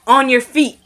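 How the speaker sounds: lightly acted order to a prisoner; mock command. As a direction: raise it into a firm command. Officer orders prisoner up, retold.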